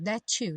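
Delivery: "that you" said as "that-chu"; T becoming CH. Shown as a demonstration. Teacher showing the junction, "that you" as "that-chu". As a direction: merge the T of "that" into a CH before "you". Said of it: "o T acabar virando to".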